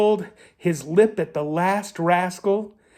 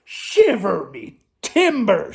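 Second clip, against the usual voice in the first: mild shout; 4 semitones higher, slower than usual. Acted. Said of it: "shouted Pete".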